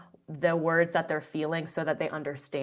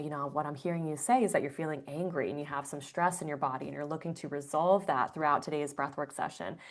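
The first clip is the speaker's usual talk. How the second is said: facilitator reflecting back; 2 semitones lower, 5 dB quieter than usual. Shown as a demonstration. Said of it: "You would then say".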